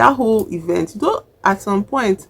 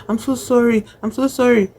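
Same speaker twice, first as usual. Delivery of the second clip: higher-pitched imitated apology; pleading apology; 5 semitones higher than usual. June apologising to crying Titi, imitated pleading. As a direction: act out an urgent sorry, pitched up.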